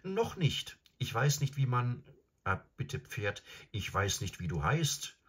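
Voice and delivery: höher, unsicher und zögernd; Jungenstimme. Acted. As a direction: ein verängstigter Junge. Shasta fragt das Pferd. (Shasta fragt zögernd nach dem Namen)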